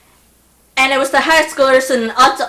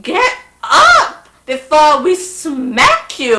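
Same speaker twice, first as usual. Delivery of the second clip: laughing mock threat; 4 semitones higher, 4 dB louder, much slower than usual. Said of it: "looking at her like".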